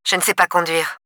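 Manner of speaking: atone, plus doux, sans relief; voix monocorde. Acted. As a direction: dire sans aucune émotion. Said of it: "répondit-elle d'une voix monocorde". (ton monocorde et plus doux)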